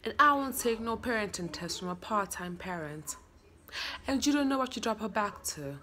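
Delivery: put-on rehearsed lines in a British accent. Learning lines for viewers to judge, British accent. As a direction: say it like a Brit running lines. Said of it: "I have to do a British accent".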